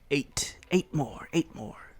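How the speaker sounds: slow, odd little goblin voice; slow goblin murmur. Acted. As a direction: drag it out like a shifty goblin. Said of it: "the Goblin says".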